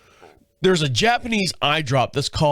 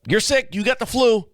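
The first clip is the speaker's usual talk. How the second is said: higher-pitched nagging-wife quote; imitating his wife; 8 semitones higher than usual. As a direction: raise the pitch to mimic a wife. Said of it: "my wife".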